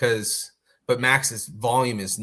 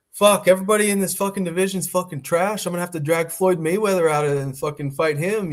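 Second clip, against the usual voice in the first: brash trash talk; 5 semitones higher, 3 dB louder than usual. Retold or imitated. Retells McGregor's press conference boasting.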